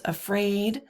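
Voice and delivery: teacher gives an example foot, "afraid" stressed on its second syllable; "afraid" with light first syllable, stressed "-fraid"; iambic stress. Shown as a demonstration. Teacher illustrating the iamb, stress on the end of "afraid". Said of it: "that is unstressed stressed".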